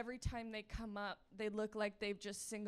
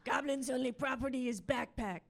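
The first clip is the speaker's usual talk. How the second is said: goblin voice. Acted. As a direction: talk like a baffled little goblin in broken sentences. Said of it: "the goblin that's running on a treadmill in my head".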